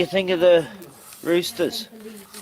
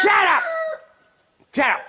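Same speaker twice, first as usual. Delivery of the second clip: yelling; 14 semitones higher, faster than usual. Real, not acted. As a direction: shout them down. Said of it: "I'm just yelling at the jokes".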